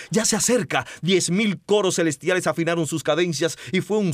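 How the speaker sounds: dramatic poetry recital; hammy stage actor. Shown as a demonstration. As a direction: declaim it like a stage poet. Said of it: "declamando una poesía bellísima".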